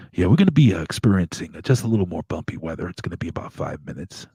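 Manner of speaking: halting PA spiel with a trailing finish; pilot announcement. Retold or imitated. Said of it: "the pilot comes on".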